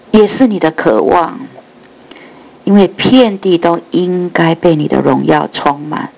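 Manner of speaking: earnest spoken prayer. Real, not acted. Opening prayer. (虔诚祷告)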